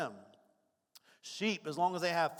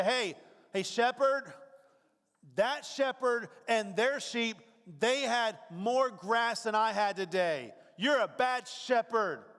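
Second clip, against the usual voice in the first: whiny complaint; 4 semitones higher, 3 dB louder, slower than usual. Retold or imitated. Whiny sheep complaining to shepherd.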